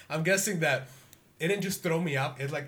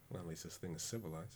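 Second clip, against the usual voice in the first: much lower, much softer, with a laugh; under the breath; 7 semitones lower, 17 dB quieter, faster than usual. Acted. Logan mutters to himself before the Rat King, under the breath. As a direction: mutter it so the king won't hear. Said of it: "Under my breath".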